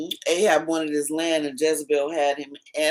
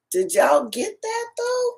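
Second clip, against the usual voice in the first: much higher, eager question; excited. Real, not acted. Aunt excitedly checking the listeners got it, high and eager. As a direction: pitch it up, thrilled to share.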